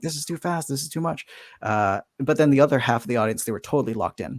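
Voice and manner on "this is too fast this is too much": put-on fed-up, complaining crowd-style screaming outcry. Retelling how audience members walking out reacted: imitating audience screaming. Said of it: "screaming at me".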